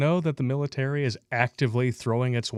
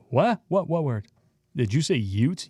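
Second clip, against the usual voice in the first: confused surprise; 3 semitones higher than usual. Acted. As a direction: sound baffled. Acted confused dialogue.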